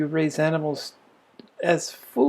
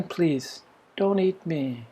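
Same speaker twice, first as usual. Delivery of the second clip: pleading cow; 4 dB quieter, slower than usual. Retold or imitated. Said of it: "the pleading was in the voice".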